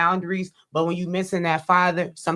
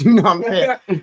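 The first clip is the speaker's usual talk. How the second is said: laughing; 8 dB louder than usual. Real, not acted. Laughing after a joke.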